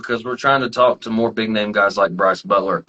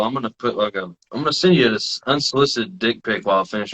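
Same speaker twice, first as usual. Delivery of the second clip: laughing; 4 semitones lower than usual. Real, not acted. Laughing through joke.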